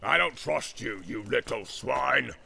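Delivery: loud, slow boastful roar; roaring orc warlord. Acted. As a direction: boast like a war chief. Ugluk boasting, shouting.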